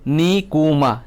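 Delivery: "Nikuma" drawn out as ni, ku, ma; syllable by syllable. Shown as a demonstration. Teacher counting syllables for students, "Nikuma" in three parts. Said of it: "Nikuma o kaitham kokthor".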